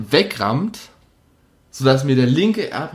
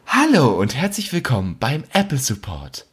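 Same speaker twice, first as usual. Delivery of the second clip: phone menu voice. Retold or imitated. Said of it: "kommt so".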